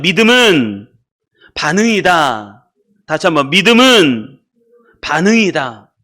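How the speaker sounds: slow, punched slogan for the congregation to echo; leading a repeat-after-me. Shown as a demonstration. Preacher has the congregation repeat a slogan, measured call-out. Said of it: "한번 따라하겠습니다".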